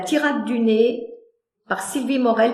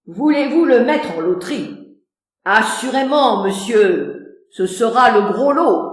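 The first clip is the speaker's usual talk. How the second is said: practical; 3 dB louder than usual. Acted.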